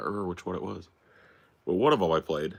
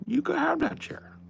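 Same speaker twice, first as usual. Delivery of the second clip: whisper; 5 dB louder than usual. Acted. Whispered to the dog.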